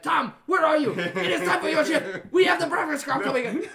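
high, loud, hammed-up Greek accent boss calling at dawn; bad Greek accent. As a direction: yell it like a bad Greek impression, half laughing. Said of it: "That is the worst Greek accent I've ever heard".

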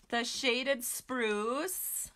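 slow product name. Shown as a demonstration. Naming the giveaway ribbon.

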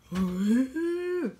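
gasp. Shown as a demonstration. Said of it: "And you go".

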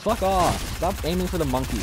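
put-on Russian accent. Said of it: "I'm doing a Russian accent".

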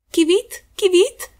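high, rising "Kiwit, kiwit" chirp; two bright rising bird calls. A narrator's reading. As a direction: chirp it like a swallow overhead. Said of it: "rozległo się znów nad otworem".

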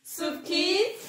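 drawn-out announcer call; quiz show call. Acted. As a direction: call out the quiz segment slowly.

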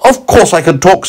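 high, loud carrot voice; indignant carrot. Acted. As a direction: insist in a squeaky carrot voice. Carrot answers boy.

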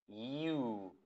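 "U" said as a soft, gliding ee-oo. Shown as a demonstration. Teacher shows the letter's soft pronunciation, "U" as yoo. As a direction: ease into "U" with a smooth y glide. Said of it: "es suave".

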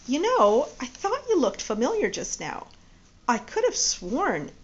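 lightly voiced Judy. Judy recalls Jeff, excited.

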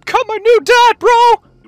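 high hyped bro shout; loud gung-ho soldier. Pretend. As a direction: yell it like a pumped marine. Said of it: "that's what Marines are like".

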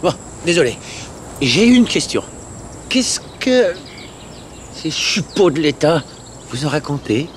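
cri de scène doublée. Acted. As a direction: stop everyone with a sharp cry. Clip de doublage, personnage qui crie. (cri aigu et pressant)

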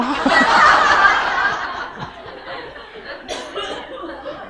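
high breathy wheeze of laughter; 소리 없이 숨넘어가게 웃기; wheezing laugh. Real, not acted. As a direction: laugh silently until you squeak. Laughing at own joke.

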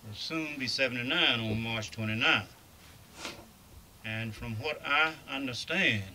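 muffled by a face mask; through a face mask. Real, not acted. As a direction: speak through a cloth mask. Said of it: "pardon my talking through this mask".

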